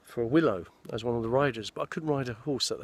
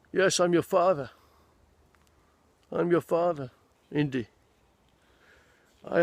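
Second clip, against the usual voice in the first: a light Sean Connery impression, somewhat higher; playing Indy's father in a hint of Connery's voice; Sean Connery as Henry Jones; 4 semitones higher than usual. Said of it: "I could play Sean Connery now".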